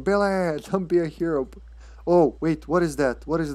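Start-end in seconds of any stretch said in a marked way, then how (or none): 0.0-1.5 mock call, pitched up; playful imitation of a dramatic shout; imitated name shout. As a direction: mimic her crying out his name. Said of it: "Every time she shouts his name".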